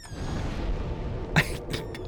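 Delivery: breathy laugh. Real, not acted. Delighted laugh after request.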